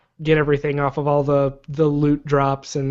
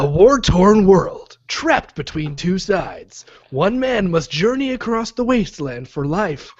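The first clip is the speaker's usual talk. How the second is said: movie trailer voice; 2 semitones higher than usual. Acted. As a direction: read it like an epic trailer. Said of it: "movie trailer voice".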